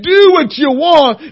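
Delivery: fervent cry. Retold or imitated. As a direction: throw it out to God in full release. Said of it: "And when I said".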